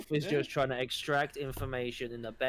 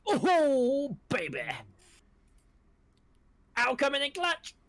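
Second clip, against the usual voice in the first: excited cheer; 12 semitones higher, 5 dB louder than usual. Real, not acted. Player cheering a lucky roll.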